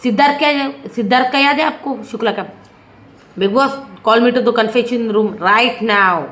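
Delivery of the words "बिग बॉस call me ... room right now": slow, deliberate mock demand, each word spelled out; mock angry demand. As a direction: drag it out like a stern order, half-hearted. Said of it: "ऐसा बोला है वो". (धीमी, ठहरी हुई नकली गुस्से वाली माँग)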